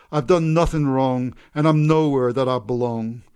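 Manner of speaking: a tired man singing his blues in speech; weary bitter man. Acted. Mister Black complaining about his life, lightly voiced and worn out.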